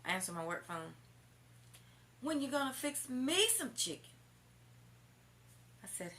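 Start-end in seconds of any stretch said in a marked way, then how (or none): 2.2-4.1 high mock man's voice, louder; high voice asking about chicken; imitating the boyfriend. Woman mimics boyfriend calling her at work, high mock voice.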